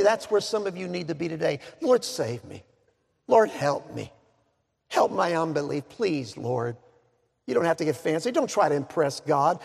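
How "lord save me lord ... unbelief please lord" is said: understated, plain little prayer; simple plea. Acted. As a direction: pray simply, without any show. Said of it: "He just simply said".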